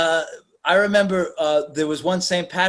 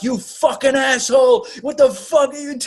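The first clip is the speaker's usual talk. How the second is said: mock angry reply; 9 semitones higher than usual.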